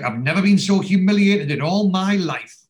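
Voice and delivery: high, loud mock outrage; indignant outrage. Hazel complaining to Barry about the evening, high indignant voice. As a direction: act out an affronted complaint.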